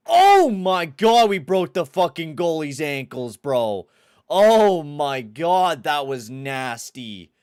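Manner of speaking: slow, very high and loud drawn-out marvel; stunned hype. Real, not acted. Streamer marvelling at his own goal, slow hype shout. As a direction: stretch the words out in disbelief.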